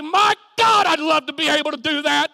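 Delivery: high, loud outcry of longing; voiced longing listener. Preacher voicing a listener watching others minister, high longing outcry. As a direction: cry it out high, as the wishful onlooker. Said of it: "You say".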